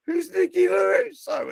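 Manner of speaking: high, startled mock demand; imitating badgering friend. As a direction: act out a friend pouncing with a question. Imitates friend whipping head round asking.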